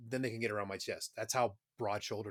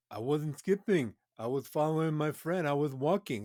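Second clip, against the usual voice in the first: mock excuse; 2 semitones higher, 4 dB louder than usual. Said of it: "he'd do the same thing".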